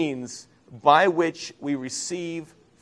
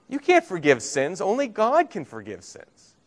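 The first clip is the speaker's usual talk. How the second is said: higher-pitched mock protest; retold objection; 6 semitones higher than usual. Preacher quoting the Jews' objection to Jesus, higher protesting voice.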